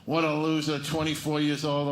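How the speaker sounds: lightly acted complaint about his son; mild mock yelling. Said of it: "he's yelling at his son".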